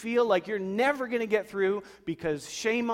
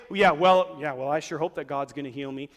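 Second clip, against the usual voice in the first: sarcastic hope; 3 semitones lower, 3 dB louder than usual. Retold or imitated. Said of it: "that's sarcastic hope".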